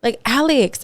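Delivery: imitating a complaining yell; retold yell. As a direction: call out to someone in reproach, without real volume. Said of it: "I was yelling at Alex".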